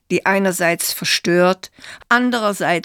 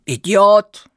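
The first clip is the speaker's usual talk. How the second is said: called out; 6 dB louder than usual. Acted. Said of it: "oder so nachriefen".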